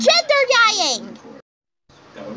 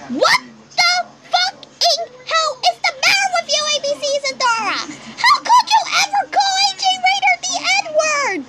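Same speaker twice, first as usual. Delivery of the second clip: higher and fast, shouting at her; outraged shouting; 4 semitones higher, faster than usual. Real, not acted. Vlogger scolding Isadora over the slur, outraged shout. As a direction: demand an answer, furious.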